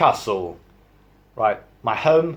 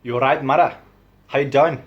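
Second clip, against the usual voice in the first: chummy Newcastle greeting; Geordie accent; 2 semitones higher, 3 dB louder, faster than usual. Shown as a demonstration. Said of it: "Geordie to me sounds something like".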